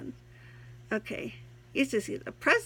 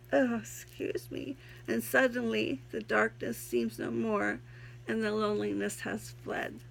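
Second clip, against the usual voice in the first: poem reading; 2 semitones higher than usual. Acted. Reads her own poem aloud.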